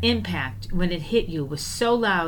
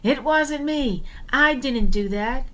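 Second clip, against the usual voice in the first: high, slow protest of innocence; retold yell; 6 semitones higher than usual. Old driver yelling his denial at the scene, high mock yell. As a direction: play the old driver denying it. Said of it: "and yelled".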